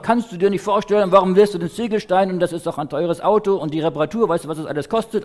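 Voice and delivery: a grown man telling off a boy, lightly played; schimpfend. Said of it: "Und dann schimpft er los". (leicht gespieltes Schimpfen des Geschäftsmanns)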